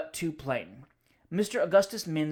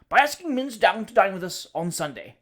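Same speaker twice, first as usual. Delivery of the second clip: bold declaration; 4 semitones higher, 8 dB louder than usual. Acted. Husband announces plan to wife.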